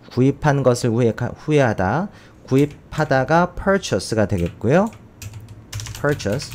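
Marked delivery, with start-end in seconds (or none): 6.0-6.5 purchase said slowly and clearly for students; purchase modeled. Shown as a demonstration. Teacher models purchase for the class, slow and clear. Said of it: "철자 이렇게 잘 써야 되죠".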